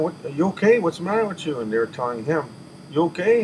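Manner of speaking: worried questioning. Retold or imitated. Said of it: "they came running in looking at".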